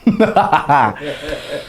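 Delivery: short chuckle at own joke; tertawa. Real, not acted. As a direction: laugh lightly after the punchline. Tertawa setelah candanya sendiri. (tertawa kecil)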